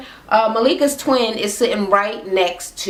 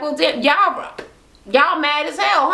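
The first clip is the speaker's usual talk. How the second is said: higher-pitched retold jab; mock-surprised taunt; 6 semitones higher than usual. He reacts to the angry women, taunting and higher. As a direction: needle them with a raised voice.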